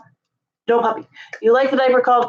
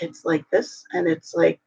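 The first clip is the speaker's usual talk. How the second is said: relaxed sick voice; 5 semitones lower, 4 dB quieter than usual. Shown as a demonstration. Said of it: "because if I just calm down and talk".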